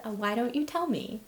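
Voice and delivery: lightly acted polite patience; kind humoring. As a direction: humor him kindly, pitch lifted. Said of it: "'Cause I was being kind".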